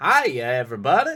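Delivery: calling out loudly. Greeting chat while guessing at a Doctor Nick voice. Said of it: "Doctor Nick voice".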